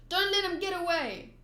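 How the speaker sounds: rally the mob in mild earnest; chasing cry. Acted. Townspeople chasing fleeing pirates, calling out.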